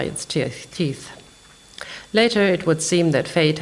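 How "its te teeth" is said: breath of a whisper on the last word; whispered ending. A narrator's reading. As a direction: let the word die away to a whisper. Sentence fades into the teeth image.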